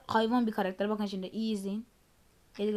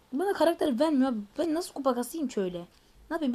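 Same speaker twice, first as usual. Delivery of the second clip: louder, higher fed-up whine; annoyed complaint; 3 semitones higher, 3 dB louder than usual. Real, not acted. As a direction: complain hard at the game. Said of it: "Sinirleniyorum abi ya".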